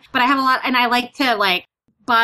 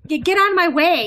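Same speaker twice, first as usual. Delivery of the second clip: high-pitched mock bossy call; acted exhilaration; 8 semitones higher than usual. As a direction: playfully order people aside, pitch up. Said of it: "a little bit of a high".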